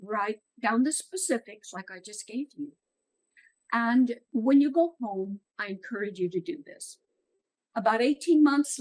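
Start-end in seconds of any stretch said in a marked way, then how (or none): 0.0-7.0 soft and quiet, calming; gentle reassurance. Retold or imitated. Speaker reassures the crying woman in a soft, quiet voice. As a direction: ease her fears gently, softly. Comforting tearful woman at conference.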